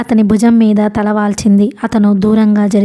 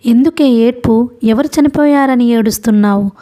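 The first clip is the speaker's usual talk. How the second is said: ordinary delivery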